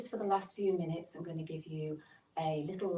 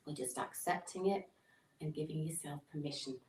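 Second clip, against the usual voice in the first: soft, unhurried body-scan voice with long pauses; guided meditation; 3 dB quieter than usual. Acted. Meditation teacher settling listeners lying down for a body scan, guided meditation. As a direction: gently settle listeners, leaving space between phrases.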